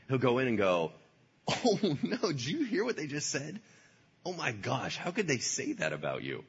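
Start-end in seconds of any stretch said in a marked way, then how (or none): 1.5-6.4 Satan's sly whisper. Acted.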